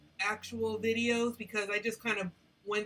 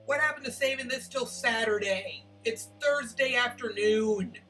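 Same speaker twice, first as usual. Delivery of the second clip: raised voice over background noise; yelling over leaf blower; 5 dB louder than usual. Real, not acted. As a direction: talk loud over the racket. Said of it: "trying to shout over the leaf blowers".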